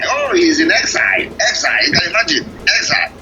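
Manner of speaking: lightly voiced sneering doubter; mocking sneer. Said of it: "laughing at the government in exile".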